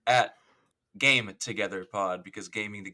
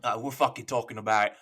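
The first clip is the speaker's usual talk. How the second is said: attempted Australian accent; casual, half-laughing Australian accent. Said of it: "your best Australian accent".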